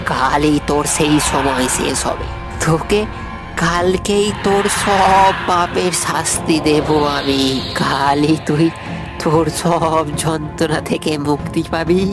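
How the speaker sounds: slow, drawn-out menace; vengeful, measured threat; menacing threat. Acted. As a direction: threaten with relish, stretching the words. Avenger threatens death by tomorrow.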